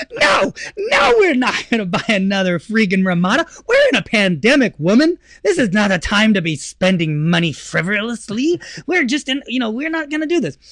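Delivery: hammed-up refusal to spend money; mock protest. Husband refusing wife's idea, hammed-up exasperation.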